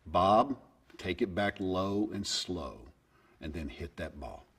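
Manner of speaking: slow, soft, fading fatherly instruction; a hint of dad coaching his young son; dad's coaching voice. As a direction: talk him through the swing, low and slow. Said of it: "I can still hear it in his voice".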